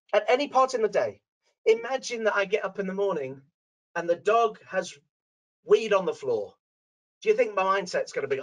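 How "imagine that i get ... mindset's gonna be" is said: usual speaking voice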